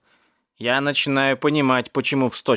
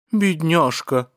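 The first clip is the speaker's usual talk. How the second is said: slow, higher sympathetic sigh of a word; pitying; 5 semitones higher, much slower than usual. Acted. Dishwasher feels for the trapped cat, pitying. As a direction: stretch it out with pity.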